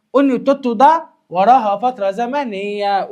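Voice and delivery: slow, stretched explanation; slow deliberate teaching voice; slow emphasis. Shown as a demonstration. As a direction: spell it out slowly for the class. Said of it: "slow explanation of phrase".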